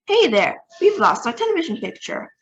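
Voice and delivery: alarmed president calling out. A narrator's reading. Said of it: "called the president".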